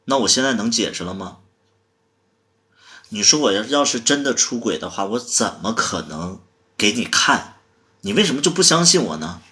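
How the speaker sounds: hurt, insistent self-defence; aggrieved protest. Acted. Pleading to explain in lovers' quarrel.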